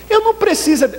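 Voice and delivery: triumphant cry to the congregation; emphatic declaration. Real, not acted. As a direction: preach it out as the punchline. Preacher's climactic declaration.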